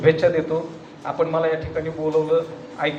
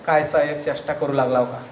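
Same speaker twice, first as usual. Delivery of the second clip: a hint of an old man's mischief; 5 semitones lower than usual. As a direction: lightly tease the customer. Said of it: "मिश्किलपणे पाहिलं". (मिश्किल म्हाताऱ्याचा हलका आवाज)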